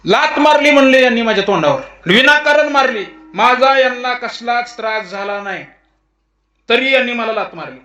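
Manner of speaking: high-pitched protest of the wronged; aggrieved complaint. Acted. Dog lodges complaint before the god.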